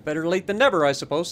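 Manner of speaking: talking through a yawn; words stretched by a yawn. Real, not acted. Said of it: "I'm yawning like crazy right now".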